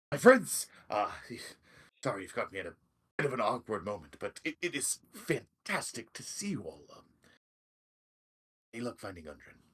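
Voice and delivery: a hint of a flustered knight, apologetic then eager; flustered old knight. Sildar apologising to the party, then asking hopefully. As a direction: welcome them while embarrassed.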